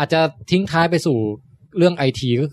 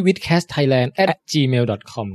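spelling it out slowly; slow and clear; 2 semitones lower, much slower than usual. Real, not acted. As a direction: read the address slowly for listeners. Spells out the show email.

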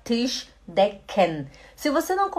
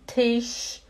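slow demo; 2 semitones lower, much slower than usual. Shown as a demonstration. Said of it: "pronunciation demo".

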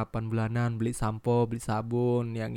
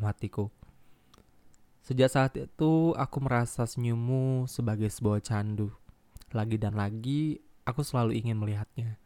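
emotional letter reading. Acted. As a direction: read it like a tender confession. Reads listener's letter aloud.

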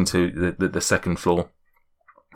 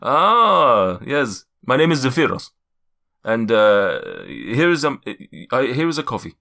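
lightly voiced scatterbrained giant; a hint of a wandering foreign accent; Zephyros; slower than usual. Giant serving his guests coffee, lightly accented giant voice. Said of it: "my accent's just all over the place".

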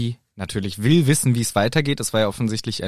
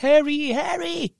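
shouting a name; slower than usual. Retold or imitated. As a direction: yell his name from below. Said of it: "und schreit".

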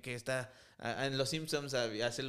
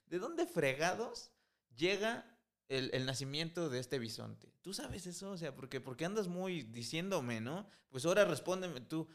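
God daring Job to answer; sarcastic God; 3 semitones higher than usual. Retold or imitated. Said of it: "Eso es sarcasmo". (Dios retando a Job con sarcasmo, voz más aguda)

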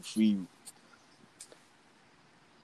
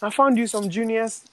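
calling out; 10 semitones higher than usual. Retold or imitated. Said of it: "He said".

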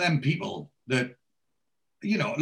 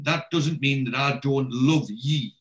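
tender dad; slower than usual. Retold or imitated. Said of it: "and he says".

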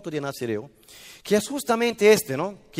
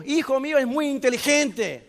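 proud mother; 6 semitones higher than usual. Retold or imitated.

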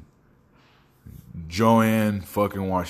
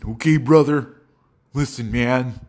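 higher-pitched put-on fretful voice; scared white-man voice; 4 semitones higher, 3 dB louder than usual. Demonstrating how his best friend talks, scared white-man voice. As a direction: imitate an anxious white guy objecting. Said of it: "talks like a scared, fat white man".

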